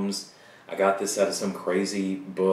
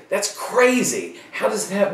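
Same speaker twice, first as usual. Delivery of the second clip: mock student disbelief; 11 semitones higher, 6 dB louder than usual. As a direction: pretend to be the shocked student. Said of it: "You're gonna say".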